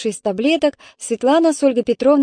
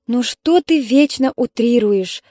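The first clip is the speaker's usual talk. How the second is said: slow, weary exasperation; exasperated; 2 semitones higher, 3 dB louder, slower than usual. Acted. Mother to daughter, slow and exasperated. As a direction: drag it out, throwing up your hands. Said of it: "всплеснула руками Ольга Петровна".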